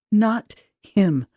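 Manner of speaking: tight, mildly angry refusal; through clenched teeth. Acted. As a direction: force it out between clenched teeth. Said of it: "I said through clenched teeth".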